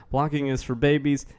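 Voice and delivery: lightly done, clumsy presidential impression; a badly faked politician's voice; horrible Trump. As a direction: have a half-hearted go at mimicking him. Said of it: "That was a horrible Trump".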